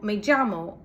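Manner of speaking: llamo said "jamo"; j sound. Shown as a demonstration. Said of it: "those are all correct".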